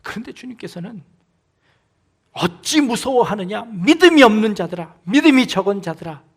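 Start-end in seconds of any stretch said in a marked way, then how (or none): 2.3-6.2 a louder reproach that rises in force on the faithless; stern rebuke. Acted. Jesus scolding the frightened disciples, stern loud rebuke. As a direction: scold them, louder on 믿음이 없는 자들아. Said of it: "라고 우리에게 호통을 치시는 겁니다".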